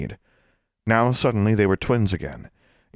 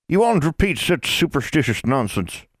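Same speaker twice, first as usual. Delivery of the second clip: put-on chiding old woman; 8 semitones higher than usual. A narrator's reading. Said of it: "Dorcas's chiding".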